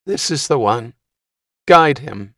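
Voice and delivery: high squeaky woman's voice. Acted. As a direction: squeak out the order. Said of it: "spoke in a squeaky voice".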